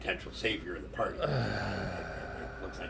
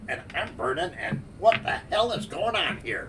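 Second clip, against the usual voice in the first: rising, louder panic; panicked; 11 semitones higher, 9 dB louder than usual. Acted. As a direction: freak out as it sinks in. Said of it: "And you're kind of like".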